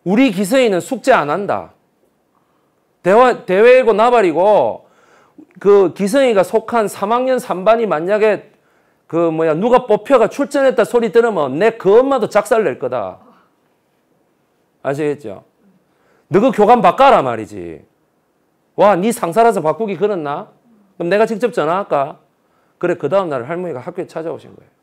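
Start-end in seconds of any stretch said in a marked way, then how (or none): 0.0-13.2 higher, louder furious threat; grandma scolding. Retold or imitated. 16.3-22.2 higher, louder angry demand; grandma demanding. Retold or imitated. Grandmother demanding vice principal.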